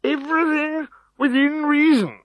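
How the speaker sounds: high loud hasty correction; flustered chief. A narrator's reading. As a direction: correct himself after his fall. Chief after being dropped.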